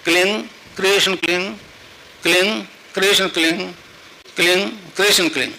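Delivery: measured mantra, a pause after each round; spaced, deliberate japa repetitions; mantra recitation demo. Shown as a demonstration. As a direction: recite the mantra evenly for followers to learn. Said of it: "संतों ने उसको जपाया, बताया".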